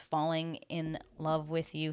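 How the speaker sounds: FALLING IN LOVE WITH YOU slowly, word by word; measured, slow tally of "Falling in love with you"; slow word count. Real, not acted. Counting the words as she says them.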